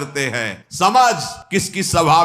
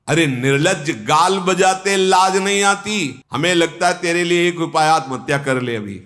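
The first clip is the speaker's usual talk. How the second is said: acted indignant rebuke, rising high then dropping; angry rebuke; 4 semitones higher than usual. Angad rebuking shameless Ravan, angry rebuke. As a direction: scold with mild, theatrical outrage. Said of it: "Angad क्रोधित होकर बोला".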